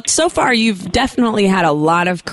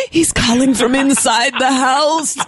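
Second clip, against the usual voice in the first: spooky horror line; 5 semitones higher than usual. Pretend. Horror movie line, joking.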